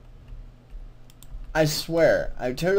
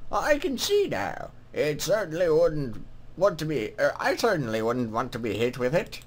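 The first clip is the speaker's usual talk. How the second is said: put-on lilting greeting from an old-world scribe; put-on scribe voice, swooping in pitch; scribe's character voice; 5 semitones lower than usual. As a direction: voice a game scribe saying hello. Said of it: "what voice should I give him".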